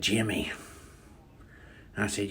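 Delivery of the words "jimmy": stern granny. Retold or imitated. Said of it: "she said".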